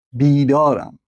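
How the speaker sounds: «بیدارم» with a long ee in the first syllable. Shown as a demonstration. Teacher showing the long vowel, «بیدارم» said with long ee.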